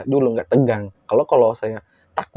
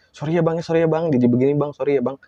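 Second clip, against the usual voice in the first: higher-pitched hurried apology; apologetic attendant; 4 semitones higher, faster than usual. Retold or imitated. Ticket man apologises to the teller, imitated apologetic plea. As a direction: imitate a contrite staffer.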